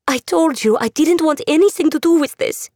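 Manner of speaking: put-on a scared girl confronting her; frightened young woman. Andula voiced by narrator.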